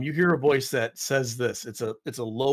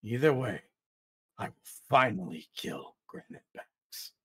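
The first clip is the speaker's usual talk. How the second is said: low hissing whisper; 4 dB quieter than usual. Acted. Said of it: "first voice comes back and says".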